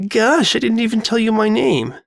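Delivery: gasped. A narrator's reading. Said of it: "the girl gasped".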